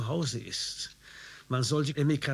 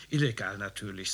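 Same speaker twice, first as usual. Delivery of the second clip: confidential; 5 semitones lower than usual. Acted. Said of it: "sagte er vertraulich".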